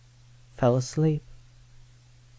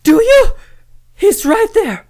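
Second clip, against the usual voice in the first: high, loud panicked shout at the corner; little cousin yells in the night at the corner, loud and panicked; frightened yell; 12 dB louder than usual. Retold or imitated. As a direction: yell it out like a scared kid who sees a ghost. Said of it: "and yelled out".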